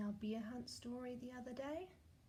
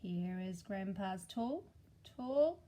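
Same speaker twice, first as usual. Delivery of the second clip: finger rhyme; slower than usual. Acted. Rhyme game.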